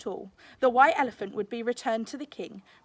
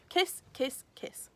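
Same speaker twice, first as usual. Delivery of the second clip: fading whisper; whispered kisses; 4 semitones higher, slower than usual. A narrator's reading. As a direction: breathe the kisses away to nothing. Reading graffiti, whispered, fading.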